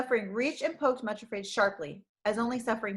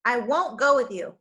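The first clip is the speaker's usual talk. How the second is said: raised, defiant refusal; defiant cry; 2 semitones higher, 6 dB louder than usual. Acted. Frightened girl defying Craven Fear, defiant cry. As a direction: cry out against him. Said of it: "cried Much Afraid".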